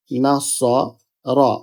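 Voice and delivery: slow নাস-স, pause, then রা; broken into syllables. Shown as a demonstration. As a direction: draw out নাসরা in separate parts. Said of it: "প্রথম হরফের সাথে এটা মিলিত হবে". (নাস... রা: ধীরে ভেঙে ভেঙে)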